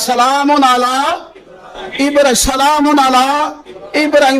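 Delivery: high, slow, with a laugh of joy; rapturous recitation. Shown as a demonstration. Preacher delighting in the verse before the crowd, high and joyful. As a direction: sing it out in delight. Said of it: "کیا انداز؟".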